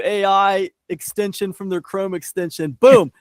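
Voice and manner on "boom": punchy shouted "Boom!"; loud exclamation. Pretend. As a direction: slam it out like a sound effect. Sound effect exclamation.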